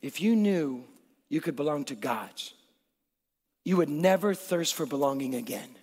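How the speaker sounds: soft, low and unhurried; quiet, measured offer with pauses between phrases; Jesus speaking gently. Acted. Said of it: "here's what Jesus says".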